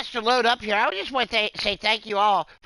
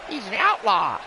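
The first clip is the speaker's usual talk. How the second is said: laughing; 5 semitones higher than usual. Real, not acted.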